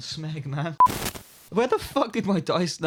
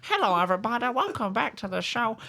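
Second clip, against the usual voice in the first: upbeat podcast host intro; show host voice; 2 semitones higher, 4 dB quieter than usual. Pretend.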